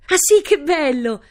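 put-on high, loud girlish delight; delighted outburst. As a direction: burst out with joy, drawing it out. Girl delighted by Granada invitation. (esclamazione di gioia)

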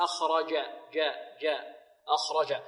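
"أخرج" with j made mid-tongue; pure "ج" without d; jim from mid-tongue. Shown as a demonstration. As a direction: repeat "جاء" as a clean jim drill. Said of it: "من وسط اللسان".

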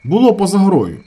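high, loud, falling on Було; firm shout. A narrator's reading. Brigadier shouts back at the injured man, firm. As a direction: hammer the claim home. Brigadier repeats offside claim.

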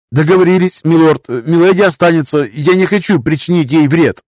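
put-on high, trembling old man's voice; quavering voice. A narrator's reading. Master defies lord in a quavering high voice. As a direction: let the voice rattle and shake. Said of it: "повторил мастер".

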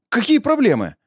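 tough challenge. Acted. Narrator confronts old woman.

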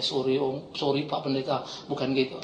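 meek apology. Retold or imitated. Cowed thug apologises.

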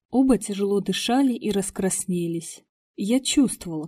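ordinary delivery, nothing marked

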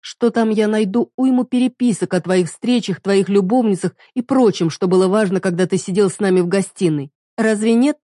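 wife taunting husband about lovers; sarcastic taunt. Acted. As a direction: needle him. Heroine taunts him.

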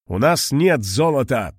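put-on steady, firm old man's statement. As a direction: state it firmly, no pleading. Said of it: "твёрдо сказал Мариэль".

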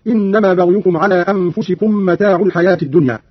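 متاع ending in a "u" vowel. Shown as a demonstration. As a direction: say متاع as "mata'u", joined to الحياة. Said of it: "قرأ قالون برفع العين هكذا".

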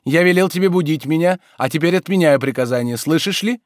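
high, loud, lordly pronouncement; self-important. A narrator's reading. Master cancelling his order to servant, self-important. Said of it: "сказал он важно".

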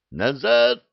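high loud roar of command. Acted. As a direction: roar it at the army. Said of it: "взревел Махмуд".

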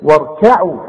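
lips spread as if smiling on "واركعوا"; thin, light kaf in "واركعوا". Shown as a demonstration. Quran teacher models the word for pupil, light kaf. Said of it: "رجع شفايفك على هيئة ابتسامة".

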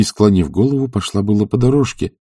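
ordinary delivery, nothing marked

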